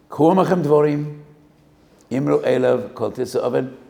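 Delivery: loud, high ringing recitation; declaimed verse. Acted. Preacher calling out the verse to the congregation, loud and high. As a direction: proclaim the verse to the crowd.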